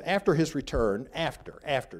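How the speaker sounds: single out the word "after" by repeating it; stress on "after". Real, not acted. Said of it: "I emphasize the word follow, uh, the word after".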